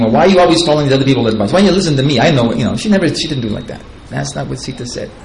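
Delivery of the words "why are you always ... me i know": fast, hammed-up nagging wife; imitating a wife scolding her husband, fast and pushy; mock nagging rant. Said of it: "nagging him, or criticizing him".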